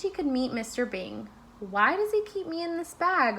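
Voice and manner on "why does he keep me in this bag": small donut voice. A narrator's reading. Donut Arnie wonders aloud.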